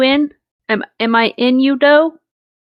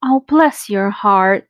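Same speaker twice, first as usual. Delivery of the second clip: condescending drawl; slower than usual. Shown as a demonstration. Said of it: "It means you a dumb child or you a fucking idiot".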